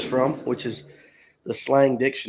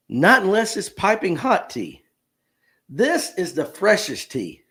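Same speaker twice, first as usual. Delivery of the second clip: Gen Z reply; 4 semitones higher than usual. Acted. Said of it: "between two Gen Zers".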